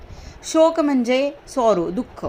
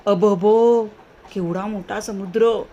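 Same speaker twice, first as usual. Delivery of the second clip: surprised; slower than usual. Shown as a demonstration. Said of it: "आश्चर्य झालेला आहे".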